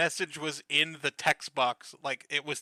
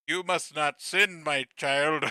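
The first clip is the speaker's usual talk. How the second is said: slow, solemn holy pronouncement, lightly put on; a hint of preachy Jesus, drawn out; lightly voiced AI Jesus; slower than usual. AI Jesus in YouTube Shorts admonishing a viewer, mock solemn. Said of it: "A I Jesus being like".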